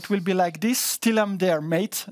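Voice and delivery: put-on Australian accent. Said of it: "avec son accent australien".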